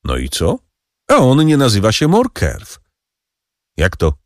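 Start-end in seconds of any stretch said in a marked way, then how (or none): 1.1-2.8 high voice pressing the point on A; a higher-voiced, pointed reveal of the secret; triumphant Danglars. A narrator's reading. (triumfalnie, wyżej, z naciskiem na A)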